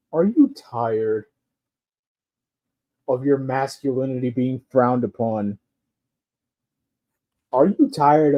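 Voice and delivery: a hint of Ray's ad-man delivery; impression of Ray. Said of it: "Let me do my best Ray impression".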